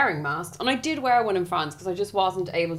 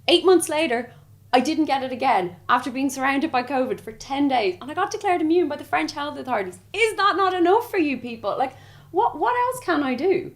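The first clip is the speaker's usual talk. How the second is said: higher, pleading exasperation; fed-up appeal in a raised pitch; exasperated; 5 semitones higher than usual. Real, not acted. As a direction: protest it, pitch climbing. Exasperated at people doubting her immunity.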